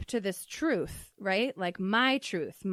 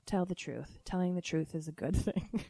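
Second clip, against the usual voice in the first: softer, lightly voiced Southern-accented mom; put-on Southern accent; 3 semitones lower, 5 dB quieter than usual. Mom gives permission to her child, gentle Southern accent. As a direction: imitate mom's soft approval with a twang. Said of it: "this weird accent that I'm choosing".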